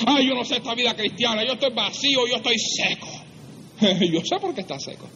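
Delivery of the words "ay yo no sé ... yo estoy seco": higher-pitched mock complaint; complaining dry Christian. Preacher mimicking dry Christians complaining, mock lament. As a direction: whine it like a discouraged believer. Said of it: "Hay muchos cristianos secos".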